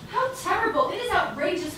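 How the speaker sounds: high loud dismay; shocked exclamation. Acted. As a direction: gasp it out in horror. Shocked after robots leave.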